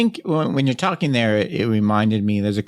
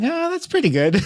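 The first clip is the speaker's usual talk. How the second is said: mock lukewarm praise; 14 semitones higher than usual. Viewer reacting to film adaptation.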